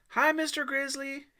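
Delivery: high, loud greeting across the crowd; boy calling out to the mountain man. A narrator's reading. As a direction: call out eagerly to a friend. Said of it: "Aiden called".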